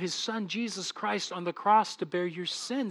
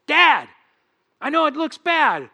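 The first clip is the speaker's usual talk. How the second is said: loud, raised appeal to Dad; pleading advocate; 7 semitones higher, 8 dB louder than usual. Acted. Jesus defending sinner to his Father, urgent loud appeal. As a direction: step in urgently for the accused brother. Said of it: "he's your advocate".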